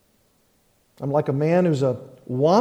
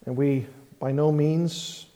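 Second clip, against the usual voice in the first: pastor's prayer. Acted.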